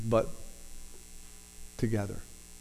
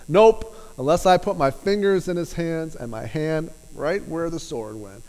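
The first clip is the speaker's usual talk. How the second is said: a touch higher, firm and defiant, NOPE pushed up; stubborn Thomas; 4 semitones higher, 4 dB louder than usual. Retold or imitated. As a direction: dig in and flatly refuse. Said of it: "somebody that felt pretty strongly".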